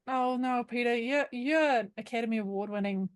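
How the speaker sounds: put-on lightly done Kiwi accent; New Zealand accent. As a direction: indulgent fans in a Kiwi accent. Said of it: "doing this in a New Zealand accent".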